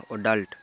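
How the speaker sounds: অ্যাডাল্ট said as English adult, A-dult; English pronunciation. Shown as a demonstration. Teacher modelling অ্যাডাল্ট for a vocabulary list, clear English pronunciation. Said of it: "এর উচ্চারণ হলো".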